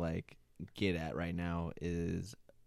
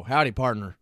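hick cowboy greeting; 8 dB louder than usual. Retold or imitated. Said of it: "it depends on how you say it".

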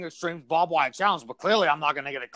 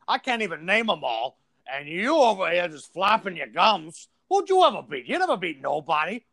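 wrestler bragging; 3 semitones higher than usual. Acted. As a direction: brag like a pro wrestler. Wrestler boasting, high and heated.

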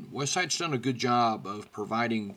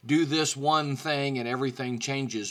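clickbait tagline voice. Retold or imitated. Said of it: "one of those clickbait titles".

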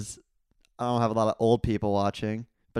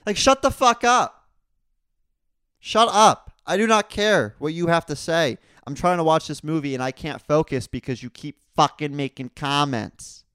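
loud, high furious yelling; irate shout; 6 semitones higher, 8 dB louder than usual. Real, not acted. Angry at the woman talking through the movie, shouting. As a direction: blow up at the talker. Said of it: "I was getting fucking irate".

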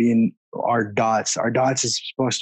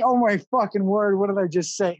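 shocked at himself; 7 semitones higher than usual. Retold or imitated. Shocked at own blurted words.

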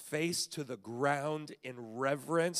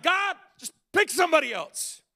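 high, louder exasperated plea; pleading whine; 11 semitones higher, 7 dB louder than usual. Retold or imitated. Moses begging God to choose someone else, whiny plea. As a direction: beg God to let him off the hook. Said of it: "he's just like".

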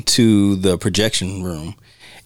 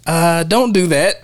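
pleading audience; 7 semitones higher, slower than usual. Retold or imitated. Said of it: "you're just like".

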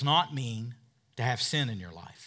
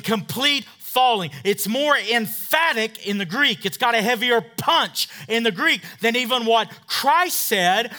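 louder and higher, hammering each phrase; full-force preaching; 8 semitones higher, 9 dB louder than usual. Acted.

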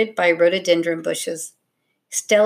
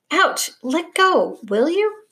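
high-pitched squeal of pained protest; 9 semitones higher, slower than usual. A narrator's reading. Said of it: "he squealed".

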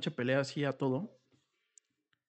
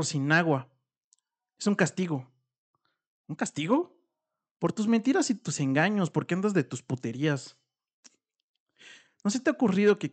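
louder, accusing wife in a quarrel; angry wife; 4 dB louder than usual. Acted. Wife berating her cheating husband, loud accusing. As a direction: lay every blame on him, loud and bitter. Acts furious wife in story.

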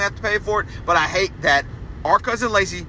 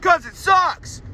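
drawn-out, much higher mock chant; mocking sing-song; 12 semitones higher, 3 dB louder, slower than usual. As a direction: sing the punchline slowly and much higher, sneering. Mocking punchline about ihop.

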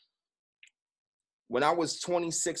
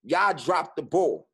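louder and slow, each word hit; triggered accusation; 3 semitones higher, 5 dB louder, slower than usual. Retold or imitated. Son accusing his parents of failing him, slow loud blame. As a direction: lay the blame down deliberately. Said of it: "So I got triggered".

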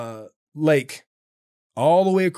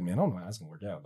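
laughing quote; 7 semitones lower, 12 dB quieter, much faster than usual. Retold or imitated. Mocks his own mistake.

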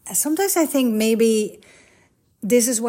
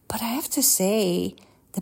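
soft whispered confession; hushed confiding whisper; whispered aside; 4 dB quieter than usual. Real, not acted. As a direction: lean in and whisper it.

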